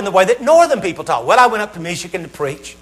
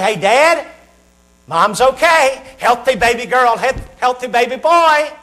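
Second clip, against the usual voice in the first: raised, upbeat good-news call; doctor's happy announcement; 5 semitones higher, slower than usual. Acted. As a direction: announce the birth to an anxious dad.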